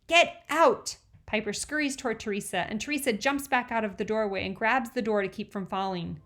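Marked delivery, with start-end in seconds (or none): 0.1-1.0 loud, high "Get out!"; older girl yelling at a snoop; shout. A narrator's reading. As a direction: throw her out with a yell. Piper chases Teresa off.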